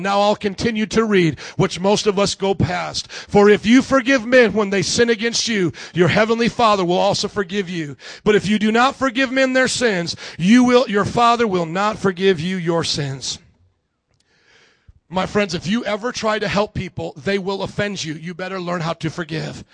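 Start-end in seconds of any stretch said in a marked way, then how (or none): 3.1-13.4 projected, measured Bible reading; emphatic reading aloud; scripture reading. Real, not acted. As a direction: read the verse out to the room. Reads scripture to congregation.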